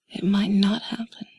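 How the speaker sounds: normal talking voice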